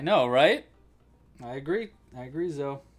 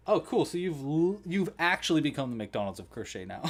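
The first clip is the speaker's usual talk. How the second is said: sarcastic mock quote; 4 semitones higher, 7 dB louder than usual. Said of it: "And it's like".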